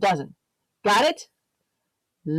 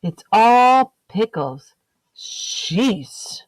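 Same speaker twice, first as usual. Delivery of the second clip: louder, slow, fed-up sigh of a line; exasperated; 3 dB louder, much slower than usual. Acted. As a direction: drag it out in mock despair. Exasperated egg.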